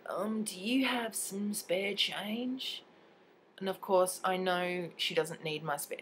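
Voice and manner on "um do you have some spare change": tags 1. Retold or imitated. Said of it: "And she goes".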